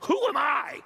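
a mock protest, are you crazy; incredulous Moses. Moses protests to God that he's too old, incredulous. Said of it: "the way we would put it".

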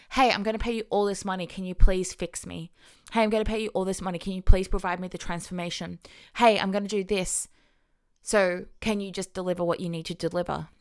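rushed, pushy mock plea to be fixed; needy pleading client. Host mocks a needy client begging a coach, in a rushed mock plea. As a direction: rattle it off like a desperate buyer begging. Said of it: "as opposed to being like".

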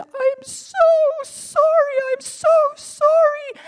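high, loud sobbing sorry; tearful apology. Retold or imitated. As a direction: break down apologizing. Driver apologizing, then crying.

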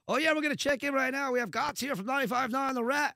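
high, loud on-air check-in; excited TV reporter. Retold or imitated. Retelling a reporter starting his recording, mock on-air hype. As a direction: launch into a pumped-up live broadcast intro. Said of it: "here comes the guy, and it was, he, he starts recording".

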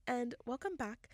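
slow news reporter intro; radio voice. Real, not acted. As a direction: announce it like NPR. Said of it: "You sounded like a news reporter".

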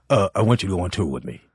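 low, fast, offhand mumble; lazy Paul voice. Retold or imitated. Paul invites the comic on tour, low and offhand. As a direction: toss it off like a casual offer. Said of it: "He's like".

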